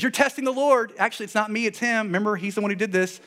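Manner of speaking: high-pitched, agitated deflecting; Moses. Acted. Preacher as a leader answering the people, high and defensive. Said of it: "'Cause Moses says".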